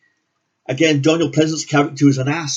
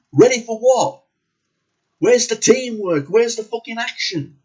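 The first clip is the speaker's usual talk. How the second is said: exasperated; 7 semitones higher than usual. Real, not acted. Exasperated rhetorical questions.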